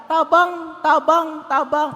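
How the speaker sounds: high-pitched acted cries; shouting for help. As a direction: keep calling for rescue in Bisaya. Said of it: "At sumisigaw niya".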